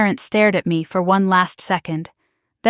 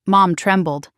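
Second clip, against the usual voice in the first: plain reading voice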